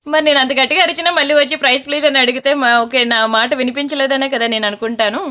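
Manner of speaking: loud, exasperated protest; loud insisting. Real, not acted. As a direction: complain loudly about not being heard. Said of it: "నేను గట్టిగా అరుస్తున్నాను".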